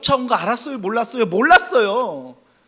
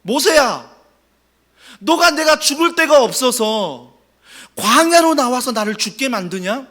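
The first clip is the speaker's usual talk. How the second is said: higher, louder whiny complaint; complaining Israelites; 4 semitones higher, 5 dB louder than usual. Acted. Israelites complaining to Moses, mildly hammed-up grumble. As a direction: grumble at Moses, lightly acted. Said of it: "어떻게 불평했다고 말하지요".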